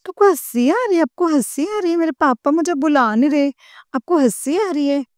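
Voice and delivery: high, mock-hurt protest; indignant complaint. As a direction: retell scolding Guruji, half-joking. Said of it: "मैं गुरुजी पे गुस्सा आता". (नाराज़गी भरी शिकायत, थोड़ी नकली)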